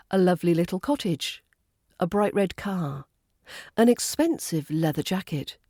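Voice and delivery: "lovely little cottage", "bright red car", "expensive leather jacket" each as one rhythmic group; group each adjective run with its noun, falling at the end. Shown as a demonstration. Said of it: "use rhythm and stress to group them".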